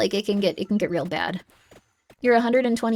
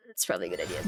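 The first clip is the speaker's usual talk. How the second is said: deep joke voice; 10 dB quieter, much faster than usual. Pretend. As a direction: drop way down low. Repeats line in a deep voice.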